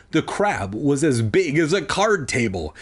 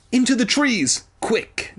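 urgent command; shouted order; 10 semitones higher than usual. A narrator's reading. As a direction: yell to run for cover. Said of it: "Doctor D shouted".

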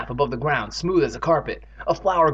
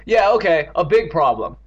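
loud, impatient retort; impatient snap; 3 semitones higher, 6 dB louder than usual. Acted. Evan answers Andy's jibe, impatient snap. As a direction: cut back with irritation. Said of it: "Evan snapped impatiently".

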